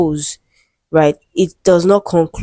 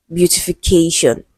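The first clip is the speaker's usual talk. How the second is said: "beautification" with the weight just before the final "shun"; stress before "shun". Shown as a demonstration. Teacher giving another example of the rule, "beautification" stressed on "ca". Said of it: "stressed on the syllable before".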